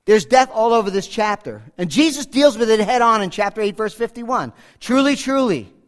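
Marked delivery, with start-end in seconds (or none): 4.8-5.7 solemn emphatic. Shown as a demonstration. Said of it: "solemn, emphatic, unarguable".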